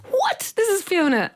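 high-pitched retold shock; acted amazement, pitch soaring then easing; astonished. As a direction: leap up high on a disbelieving reaction. Retold shock at unexpected phone call.

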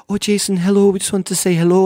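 high, bright mock old lady greeting; old ladies greeting. Comedian imitating elderly fans greeting him in the rain, high and loud. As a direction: voice two sweet elderly Scottish ladies.

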